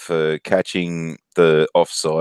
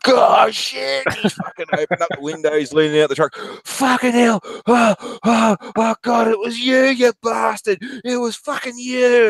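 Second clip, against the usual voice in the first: mimicking Luke yelling. Offsider catches fart in truck cab.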